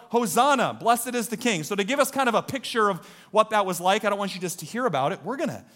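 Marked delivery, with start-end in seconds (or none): 0.1-1.6 mild mock crowd shout; raised-pitch retold cheer; imitated yell. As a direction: call it out, half-full voice. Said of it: "They would yell".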